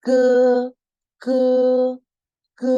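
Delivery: ke, ke, ke with a sound halfway between g and k. Shown as a demonstration. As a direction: say "ke" with no puff of air. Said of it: "tengah-tengah G sama K".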